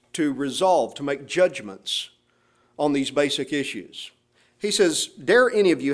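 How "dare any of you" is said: "Dare" hit high and firm, then a falling line; emphatic dare. Shown as a demonstration. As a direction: punch "Dare" as the first word. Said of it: "The word dare ... is emphatic".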